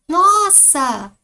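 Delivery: "Nossa!" alto e agudo, caindo no fim; exclamação. Shown as a demonstration. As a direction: solta um "Nossa!" espantado e forte. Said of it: "Pontinho de exclamação". ("Nossa!" exclamado com espanto)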